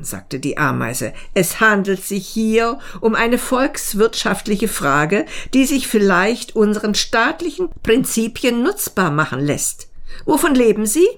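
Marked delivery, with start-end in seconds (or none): 1.3-11.1 higher, businesslike ant voice; officious ant. Acted. Ant questioning the mayfly on economics, officious and brisk. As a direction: lecture officiously, then demand an answer.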